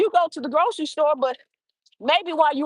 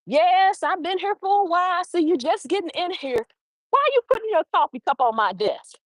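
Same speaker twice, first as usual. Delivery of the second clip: playful; 5 semitones higher than usual. Retold or imitated. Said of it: "There's laughter and play in that sentence".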